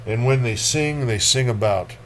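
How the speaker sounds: measured, dark poetry recital; lightly dramatic poem reading. Acted. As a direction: read it like a grim memory. Reads Akhmatova poem.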